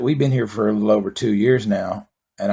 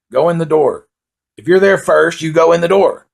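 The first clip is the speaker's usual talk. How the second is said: louder and higher, insisting; emphatic rant; 6 semitones higher, 5 dB louder than usual. Real, not acted. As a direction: drive the rule home hard. Ranting about door-holders.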